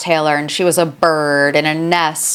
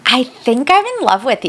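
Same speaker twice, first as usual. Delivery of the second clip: mock lovestruck girl; 7 semitones higher than usual. Mocking Landon's love confession.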